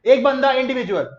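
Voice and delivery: high, loud teacher's drill; leading a recitation. Shown as a demonstration. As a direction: call it out for everyone to repeat. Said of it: "चलो मेरे साथ, मेरे साथ बोलो".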